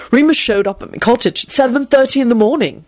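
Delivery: wondering, lifted voice; amazed. A narrator's reading. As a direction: marvel at the news. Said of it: "he told them in an amazed voice".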